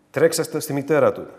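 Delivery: a breathless whisper with no voice; whispered order. Shown as a demonstration. Father whispering to the servant to run to the mother. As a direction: hush it like a dismissive father passing the child off.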